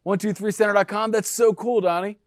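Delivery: imitating a thrilled seller, voice rising; excited seller. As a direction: play the delighted seller hearing the news. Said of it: "They're like".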